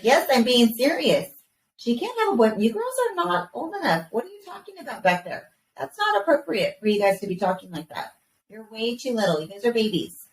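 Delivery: firm, exasperated mom laying down the law; a hammed-up protective mother; mock stern mom. Mom retells scolding her daughters.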